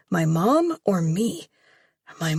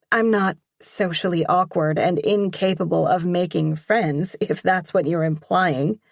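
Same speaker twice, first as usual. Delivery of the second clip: grinning. Acted. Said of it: "I say with a grin".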